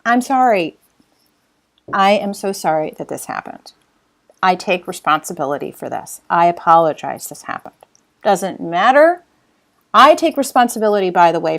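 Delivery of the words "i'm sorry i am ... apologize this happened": sincere apology demo. Shown as a demonstration. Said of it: "Number one is apologize".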